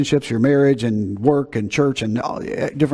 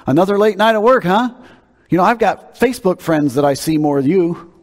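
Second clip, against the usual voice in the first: needling wife's jab, pitched up at first; sarcastic; 5 semitones higher than usual. Acted. Wife to husband home late from work, sarcastic. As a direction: make a snide, mock-wifely dig. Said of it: "would make a sarcastic comment".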